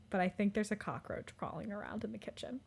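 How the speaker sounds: unvoiced whisper of a bad news; whispering a cockroach warning to her roommate. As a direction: hush it so as not to alarm. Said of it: "Hunter goes".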